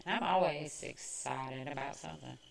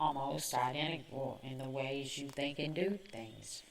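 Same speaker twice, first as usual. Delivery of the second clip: whispering; 3 semitones lower, 7 dB quieter than usual. Real, not acted. Whispered aside.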